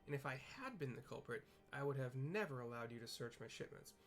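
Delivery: a hint of a rattled porter insisting on innocence; flustered porter. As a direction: talk fast to clear his name. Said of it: "here's the apathetic porter".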